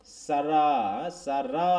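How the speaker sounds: "সারা" with the second syllable stressed and held long. Shown as a demonstration. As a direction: lean hard on the final "রা" of "সারা". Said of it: "stress on the second syllable".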